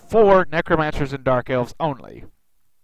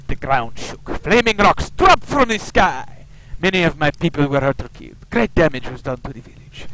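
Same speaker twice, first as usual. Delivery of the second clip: put-on Slavic Russian accent. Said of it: "given him a kind of a Slavic Russian accent".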